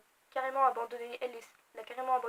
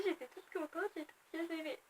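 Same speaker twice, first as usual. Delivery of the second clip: dreamy contentment; 4 semitones higher, 11 dB quieter than usual. Retold or imitated. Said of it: "j'étais en mode comme ça".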